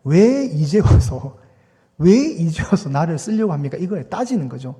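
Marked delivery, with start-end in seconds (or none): 0.0-3.8 slow, aggrieved "why only now"; a mild, slow reproach of a long-absent God; resentful complaint. Acted. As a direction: drag it out like a hurt child accusing a parent. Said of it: "그 안에 있는 진정한 내용은 뭐냐면".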